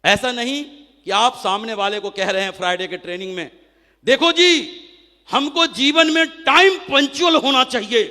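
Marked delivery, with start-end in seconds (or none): 4.0-8.0 mock preachy trainer.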